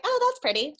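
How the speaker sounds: high, loud little gush of delight; mock delight at a doodle. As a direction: coo over it like a proud parent. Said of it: "I'm like".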